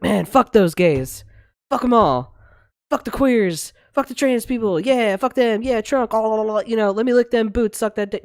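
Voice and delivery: high, loud sneering parody of a Trump fan; mocking bigot. Host mocks eager Trump supporters, high loud sneering parody. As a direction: sneer it out like a gleeful bigot cheering cruelty. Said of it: "you were chomping at the bit to be like".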